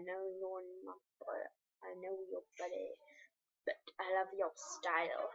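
soft breathy whisper. Real, not acted. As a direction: read it under the breath. Reading message in whisper.

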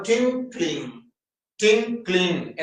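ടിങ്ക്ലിംഗ് in two separated syllables, tink-ling; pronunciation demo. Shown as a demonstration. Teacher pronouncing ടിങ്ക്ലിംഗ് for the class, syllable by syllable. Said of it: "എന്ന് നമ്മൾ ഉച്ചരിക്കുന്ന സമയത്ത്".

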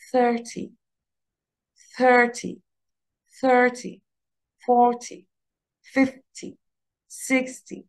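each number said slowly and clearly for repeating; drill model reading. Shown as a demonstration. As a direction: model every number for the class to copy. Teacher models numbers for repetition. (نطق الأرقام ببطء ووضوح للتكرار)

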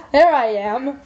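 laughing as she says it. Real, not acted. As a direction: say it through a chuckle. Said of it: "Oh, there I am".

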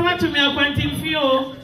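laughing quote. Retold or imitated. Retold own words with laugh.

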